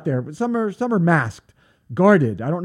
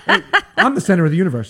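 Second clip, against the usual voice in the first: laughing brag; 2 semitones higher, 6 dB louder, faster than usual. Pretend. Joking self-centered bragging.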